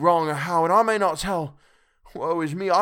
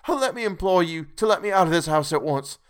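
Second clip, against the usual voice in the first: high, loud, begging through tears; desperate tearful pleading; 7 semitones higher, 6 dB louder than usual. A narrator's reading. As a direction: plead for your life and soul, voice straining high. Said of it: "poured forth a torrent of entreaty".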